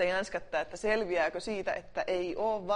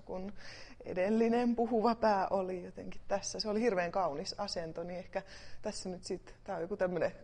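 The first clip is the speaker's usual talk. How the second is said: usual speaking voice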